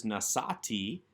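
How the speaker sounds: "nasati", weight on the middle "sa"; penultimate stress. Shown as a demonstration. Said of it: "accent on that second to last syllable".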